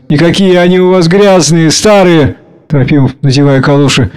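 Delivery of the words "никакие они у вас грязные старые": higher, mildly tearful tone. A narrator's reading. Varya handing Petya his galoshes, tearful. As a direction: lament with a touch of tears. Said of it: "Со слезами".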